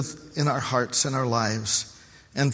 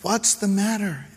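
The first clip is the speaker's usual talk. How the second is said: wife asking; 7 semitones higher than usual. Retold or imitated. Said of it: "She says".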